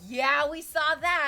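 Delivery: loud, high, drawn-out "yeah"; hammed-up, slow shouted affirmation; emphatic group agreement. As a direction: call it out like an agreeing crowd. Retells classmates' emphatic agreement.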